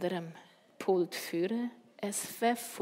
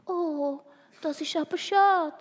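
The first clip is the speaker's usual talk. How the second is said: higher-pitched motherly commiseration; sympathetic; 8 semitones higher, 5 dB louder than usual. A narrator's reading. Mami commiserates with Christoph over his news, sympathetic. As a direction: coo it with fellow feeling. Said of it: "sagt die Mami mitfühlend".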